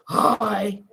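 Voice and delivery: low, drawn-out mock "hi"; imitated greeting. Asking husband if he greeted this way, low imitation. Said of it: "You said it like that?".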